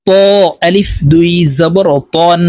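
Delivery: ত and তন said with a thick, heavy t. Shown as a demonstration. Teacher drilling learners, heavy ত and তন. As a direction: make the t of ত and তন full and heavy. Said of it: "এই ত হরফকেও মোটাভাবে উচ্চারণ করব".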